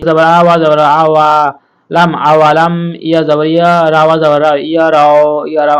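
loud, emphatic spelling out; loud classroom drilling. Shown as a demonstration. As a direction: call out each syllable loudly for students. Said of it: "loud drill spelling aloud".

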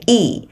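Y as a tense ee through a smile; smiling long ee. Shown as a demonstration. Teacher demonstrates the vowel to learners, smiling long Y. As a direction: stretch Y out with spread lips. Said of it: "miệng cười á".

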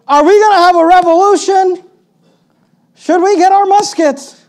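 very high, loud parody of eager rebels; hammed-up, shouted rallying question; mock eagerness. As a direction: play an over-excited would-be revolutionary. Parodying disciples' political question.

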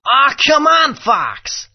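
high, pleading come on; pleading whine. Acted. Character pleading with Fox, high and whiny. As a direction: beg Fox not to be cross.

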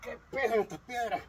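strained under heavy stones; carrying heavy load. Real, not acted. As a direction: groan it while lifting heavy weights. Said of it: "me pesaron las piedras".

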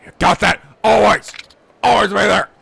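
stern shout. Acted. Kiryu warning.

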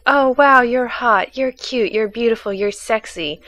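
mock gushing, starting high and easing down; imitated gushing commenters. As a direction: rattle off compliments like gushing fans.

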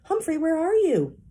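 calling out. A narrator's reading. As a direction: call out to the hamster across the room. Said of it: "Magic Mitch called out".

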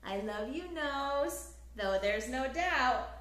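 lively, sing-song storybook reading; reading to children. A narrator's reading. Teacher reading a picture book aloud to children, lively storytelling. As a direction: read it like bedtime story time for little ones.

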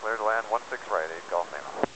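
crackly radio. Real, not acted. Pilot readback over radio.

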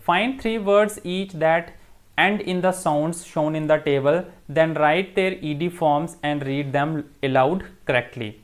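slow, deliberate reading of the task; teacher carefully reading the textbook instructions aloud to students. Acted. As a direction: read the instructions out slowly for the class. Teacher reads the exercise instructions.

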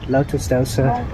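normal talking voice

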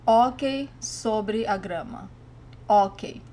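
ok as Brazilian hockey with no H sound; silent H. Shown as a demonstration. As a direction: start ok straight on the vowel. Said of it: "With the silent H".

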